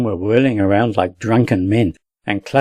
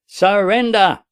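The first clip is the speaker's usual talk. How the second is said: a high, hammed-up enemy shout; thundering demand; 9 semitones higher, slower than usual. A narrator's reading. Enemy voice calling on the defenders, shouting. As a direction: bellow the demand across the field. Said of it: "a thundering voice shouted".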